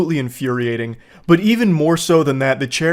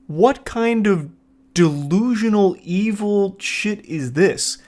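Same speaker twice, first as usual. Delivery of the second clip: outraged disbelief; 4 semitones higher, slower than usual. Real, not acted. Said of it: "reacting in disbelief".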